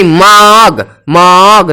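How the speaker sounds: मग stretched as "maw-awg"; O in the middle. Shown as a demonstration. Teacher showing the middle sound, मग drawn out to "maawg". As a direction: hold a long aw in मग before the g. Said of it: "सबके बीच में ओ आ रहा है".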